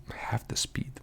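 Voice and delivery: whispering with something in mouth; mouth full. Real, not acted. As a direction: talk around a mouthful. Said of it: "I have something in my mouth".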